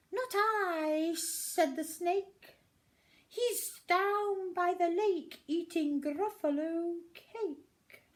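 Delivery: high, loud sly snake; a smug snake teasing the little monster; high sly hissing snake. Acted.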